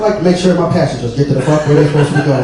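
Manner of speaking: low, controlled mock fury; acted anger held tightly in; suppressed anger. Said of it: "That piss where he's not saying shit".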